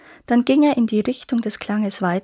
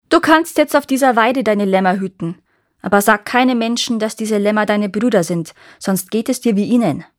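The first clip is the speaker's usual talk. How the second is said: louder, menacing witch giving an order; gloating witch; 5 dB louder than usual. Acted. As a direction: warn her with cold triumph. Witch warns Leven after spell.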